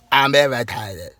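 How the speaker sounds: slow mock complaint; a hint of a put-out sister, dragging the words; imitating irritated sister. Brother tells viewers her first words, slowly mocking. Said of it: "First thing out of her mouth is".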